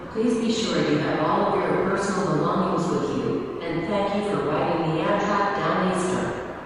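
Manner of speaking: train station announcement. Real, not acted. Station announcement over speakers.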